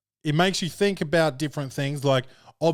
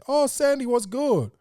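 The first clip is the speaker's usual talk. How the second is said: overly friendly greeting; 12 semitones higher, slower than usual. Acted. Answering friend's girlfriend's call.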